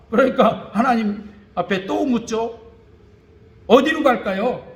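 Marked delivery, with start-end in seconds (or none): 3.7-4.7 laughing question. Retold or imitated. David asks God, laughing.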